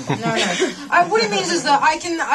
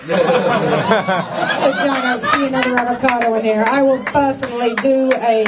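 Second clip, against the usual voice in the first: mock menace; 3 dB louder than usual. Continued menacing haggling threat.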